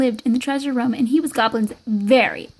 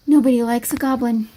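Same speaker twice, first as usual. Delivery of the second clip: understated, glum admission; resigned echo. Acted. Goblin hiding in the cave with Skeleton, glumly resigned.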